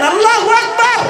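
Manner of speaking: full-throated group takbir; all together loud. Shown as a demonstration. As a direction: shout it out with everyone. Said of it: "সবাই মিলে বলেন".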